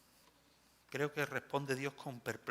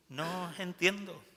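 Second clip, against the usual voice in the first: "No os entiendo" repeated higher and louder, pleading; exasperated repeat; 6 semitones higher, 3 dB louder than usual. Acted. God repeating His bewilderment to His people, higher exasperated. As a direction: raise "No os entiendo" in exasperated disbelief. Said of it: "Un Dios que mira a su pueblo y dice".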